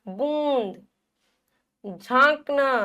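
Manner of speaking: बूंद, झांकना with held nasal vowels; careful demo of बूंद, झांकना; nasalised vowel with effort. Shown as a demonstration. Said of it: "थोड़ा जोर लग रहा है".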